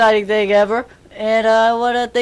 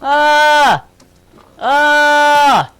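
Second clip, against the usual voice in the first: a manly yell, held and even; mock manly yell; real scream; 5 semitones higher, 6 dB louder than usual. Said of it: "I could do it real".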